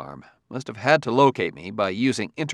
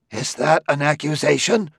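cried out; 4 semitones higher, 3 dB louder than usual. A narrator's reading. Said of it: "cried Liebig".

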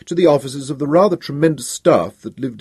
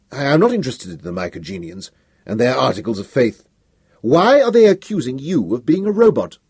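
raised, impatient imperial outburst; angry emperor; 4 semitones higher than usual. Acted. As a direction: cut him off in anger.

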